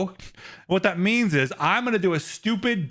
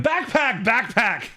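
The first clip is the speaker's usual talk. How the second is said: Dora-style host; 6 semitones higher, slower than usual. Acted. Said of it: "Dora the Exploring Your Lectures".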